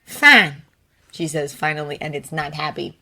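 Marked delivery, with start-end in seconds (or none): 0.0-0.6 defeated sigh. Acted. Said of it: "there's a sigh of defeat there".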